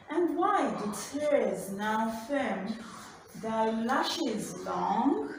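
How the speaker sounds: slow, measured recitation of a poem; poem reading. Shown as a demonstration. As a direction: read each line slowly, letting it breathe. Teacher reads poem aloud.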